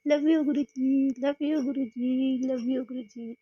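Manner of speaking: half-shouted adoring cry from an auto-rickshaw; mock shouted devotion. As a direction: call out your love to the guru, slowly. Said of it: "मैं auto में ही चिल्लाने लग जाऊँ".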